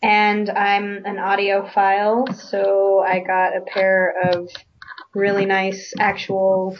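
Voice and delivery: echoey room sound; echo chamber. Real, not acted. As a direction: voice bouncing in a room. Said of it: "you sound like you're in an echo chamber".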